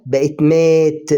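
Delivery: مات drawn out slowly, long open a before the t; slow word demo. Shown as a demonstration. Teacher reading the new word to beginners, slowly stretching مات. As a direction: say مات slowly so the learner hears each sound. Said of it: "حطينا حرف ال M".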